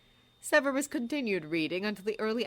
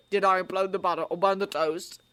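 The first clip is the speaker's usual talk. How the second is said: snarling; 5 dB louder than usual. Acted. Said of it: "Ron snarled".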